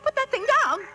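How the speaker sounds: alarmed. Acted. Wife sees him with rope.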